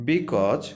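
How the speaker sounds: because said slowly and clearly, each sound distinct; slow clear model of because; careful pronunciation. Shown as a demonstration. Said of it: "এটার উচ্চারণ হচ্ছে because".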